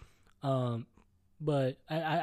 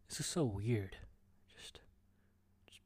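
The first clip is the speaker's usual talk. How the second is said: low whispered aside; awkward whispered aside to himself; 4 semitones lower, 5 dB quieter than usual. Real, not acted. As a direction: breathe it out under your voice. Unvoiced aside.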